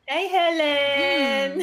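slow drawn-out call; called greeting. Real, not acted. Echoing the greeting to Helen, drawn out slowly. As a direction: echo the greeting, stretching each word.

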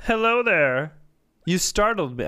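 put-on high, nasal Southern man-child voice; chirpy Southern Pee Wee voice; Southern Pee Wee Herman. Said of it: "like a Southern Pee Wee Herman".

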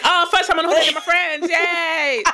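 lightly voiced giddy sixteen-year-old; a hint of a thrilled kid on holiday; mock excited teen. Mocking a teen's dating photo, lightly excited. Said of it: "That's what it sounds to me".

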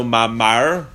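mamar ending in an open "-ar"; patach vowel. Shown as a demonstration. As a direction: say mamar as "ma-MAR". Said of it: "it had both of them with a patach".

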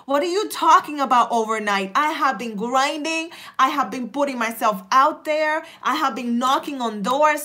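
indignant protest, punching the key words; worked-up, emphatic objection; really upset. Acted. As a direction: act out someone offended at being underestimated. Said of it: "the person gets really upset".

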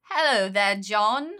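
put-on British accent; playful fake British accent. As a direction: greet him in a mock British accent. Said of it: "are you doing a British accent".

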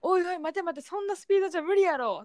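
lightly voiced Kansai uncle; mock worried old man. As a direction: imitate the old man doubting her pace. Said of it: "って思いながら見てたらしい".

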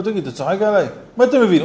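high-pitched acted protest; indignant payee. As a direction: challenge him as if being mocked. Acted quarrel over empty payment.

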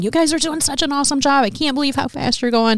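upbeat, encouraging supervisor. Retold or imitated. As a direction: cheer them on warmly. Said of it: "she was so encouraging".

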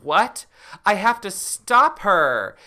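high, loud, urgent outburst; Tamara crying out in panic; alarmed cry. Acted. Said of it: "Tamara out loud says".

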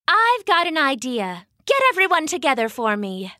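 rally the others quickly; mummy taking charge; eager mummy. Acted.

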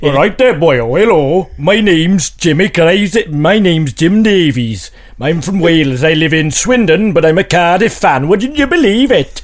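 put-on amateur sing-song Welsh accent. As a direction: attempt a hammed-up Welsh accent. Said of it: "your Welsh accent was so fucking shit".

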